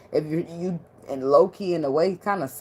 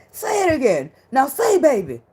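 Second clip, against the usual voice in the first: high, loud, giddy begging; swooning plea; 6 dB louder than usual. Retold or imitated. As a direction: coo at him to say it again. Begging boyfriend to repeat.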